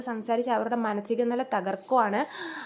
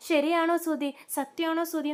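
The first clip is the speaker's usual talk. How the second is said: excited disbelief; 5 semitones higher than usual. Retold or imitated. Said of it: "ഭയങ്കര സന്തോഷമാവേ".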